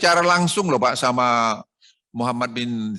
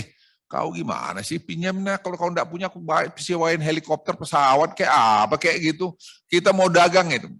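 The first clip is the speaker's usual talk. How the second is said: retold telling off; 3 semitones higher than usual. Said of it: "saya marahin sama bupati".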